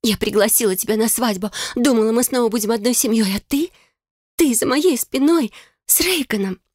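high, wounded, accusing; hurt young sister. A narrator's reading. Bride accusing her sister of betrayal, high wounded voice.

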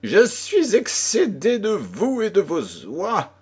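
high, exasperated outburst; fed-up cry at the door; angry shout. Acted. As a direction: yell at the pestering little man. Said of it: "cria-t-il".

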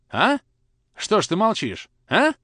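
high, loud demand; father demanding an answer, high and loud; pressing anger. Acted.

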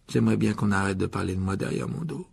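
mildly tearful, low complaint; wounded, lightly voiced sob; voix sanglotante. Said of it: "dit Mimi d'une voix sanglotante". (d'une voix légèrement larmoyante)

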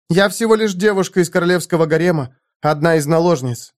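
a concubine baring her soul; earnest young woman. A narrator's reading. Zenobia speaks to Conan.

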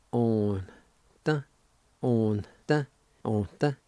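On, the, slow and separate; syllables On the. Shown as a demonstration. Teacher sounding out On, the, for the class. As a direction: sound out On the twice over. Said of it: "It's pronounced like this".

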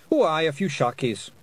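high, loud rough Scottish pixie; indignant little Scottish warrior; Feegle voice. A narrator's reading. Rob Anybody speaking.

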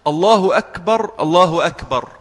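"الله أكبر" with a clear u ending on الله; Damma auf dem Ha. Shown as a demonstration. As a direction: say "الله أكبر" as Allahu akbar, short u after the h. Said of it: "الله بالضم".

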